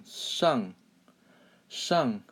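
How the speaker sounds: shang with a falling fourth tone; teacher's model "shang", falling; fourth-tone demo. Shown as a demonstration. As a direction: say "shang" on its own, pitch dropping. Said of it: "So fourth tone".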